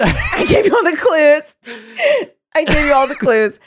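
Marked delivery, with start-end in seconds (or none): 0.0-1.6 high, loud taunting shout; shouted quote. Acted. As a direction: yell it as a gloating killer. Shouted repeat of killer's line.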